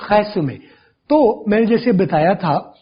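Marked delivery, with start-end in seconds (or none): 0.1-0.6 खैसुमे with a throaty French r, khay-su-may; French pronunciation. Shown as a demonstration. Teacher shows how French speakers say खैसुमे, lightly French. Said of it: "French वाले जब इसे बोलेंगे".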